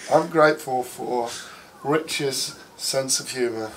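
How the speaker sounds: slow, drawn-out mock gratitude; sarcastic thanks, slowly measured out. Real, not acted. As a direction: give thanks insincerely, taking your time. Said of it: "this is sarcasm, by the way".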